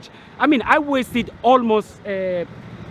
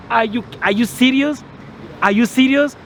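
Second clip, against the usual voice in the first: higher-pitched, indignant disbelief; incredulous; 4 semitones higher than usual. Real, not acted. Challenging the embassy over a birth certificate, incredulous. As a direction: throw the question out in disbelief.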